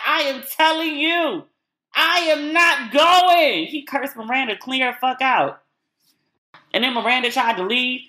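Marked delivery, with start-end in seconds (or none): 0.0-3.7 high, very slow, louder mock Steve; mock Steve refusing. Vlogger imitating Steve refusing to leave, high and slow. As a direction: dig in and refuse word by word. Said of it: "But Steve was like".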